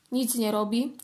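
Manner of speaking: whisper. Acted. Kitten mocks the mountain.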